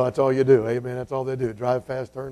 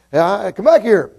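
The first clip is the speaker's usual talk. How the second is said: raised-pitch, drawn-out call; hollering; 5 semitones higher, 3 dB louder, slower than usual. Acted. Preacher summoning the boy on the bike, hollering. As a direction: slowly call him back from far off. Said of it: "So he hollered".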